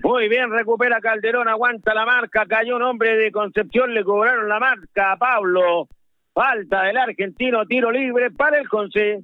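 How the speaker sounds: football radio commentary, running with the ball; South American radio football commentator; live play-by-play. Real, not acted. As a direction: call the match live on radio.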